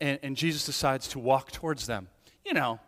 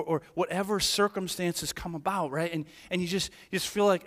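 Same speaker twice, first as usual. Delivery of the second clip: usual speaking voice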